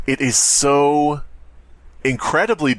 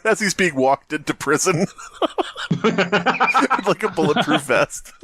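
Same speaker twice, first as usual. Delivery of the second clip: words squeezed out between high laughs; laughing through words; 7 semitones higher, slower than usual. Real, not acted. Joking about a killer being walked into prison, laughing high. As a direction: laugh your way through the image of a prisoner in armour.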